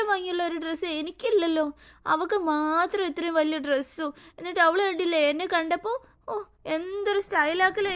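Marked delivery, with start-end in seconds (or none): 4.4-7.9 tearful jealous whine to mother; a jealous little girl sniffling to her mother; whiny crying. Acted. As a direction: whimper the complaint like a sulking child. Jealous child complains to mother.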